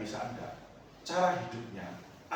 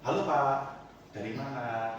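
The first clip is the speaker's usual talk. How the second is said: friendly greeting; much slower than usual. Retold or imitated. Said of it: "saya sapa".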